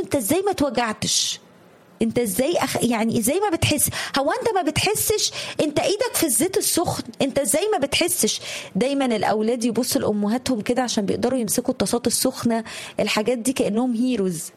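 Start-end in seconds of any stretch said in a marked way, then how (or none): 0.0-8.4 incredulous, rising higher with each question; amazed disbelief. Retold or imitated. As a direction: pitch climbing in astonished questions, peaking high on "هو انت ما بتحسش". Amazed question to hardened cook.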